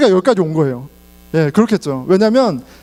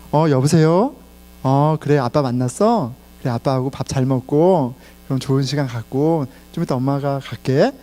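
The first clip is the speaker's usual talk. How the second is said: put-on lower, gentle mom voice to her child; tender mother on the phone; 6 semitones lower than usual. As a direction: soften completely for your kid after cursing all day. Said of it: "사람이 백팔십 도 바뀌는 거예요".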